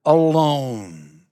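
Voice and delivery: "alone" set apart after a pause and drawn out; stress on alone. Shown as a demonstration. Preacher stressing the key word to the congregation, drawn out. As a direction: let "alone" land on its own, weighted and final. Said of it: "I emphasize again the word".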